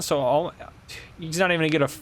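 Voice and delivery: normal talking voice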